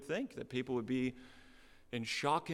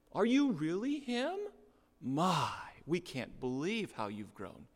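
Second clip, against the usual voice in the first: higher, bright admiring wonder; positive amazement; 3 semitones higher than usual. Shown as a demonstration. Townsfolk to the returning boy, admiring amazement. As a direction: marvel fondly at how he's grown.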